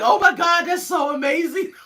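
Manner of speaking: high, loud excited squeal with laughter; gushing squeal. Retold or imitated. Reliving the reaction to his heel click, gushing squeal. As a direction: shriek it in giddy delight.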